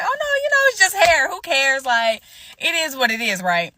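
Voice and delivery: high, airy brush-off; mock breezy. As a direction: play along way up high. Playing along with the lie.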